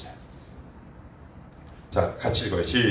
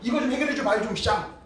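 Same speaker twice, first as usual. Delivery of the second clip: high, loud impatient nagging; cornered prodigal son begging the father, rising to a loud whine; whiny demanding son; 13 semitones higher, 5 dB louder than usual. Retold or imitated. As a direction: pester your father to fix your mess. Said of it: "아버지한테 그러는 거예요".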